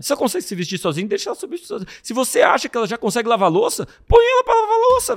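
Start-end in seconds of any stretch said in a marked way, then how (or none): 4.1-5.2 very high and loud, insistent; emphatic exclaim. Real, not acted. Urging parents to let kids do chores, loud high insistence. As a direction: push the point home with a high cry.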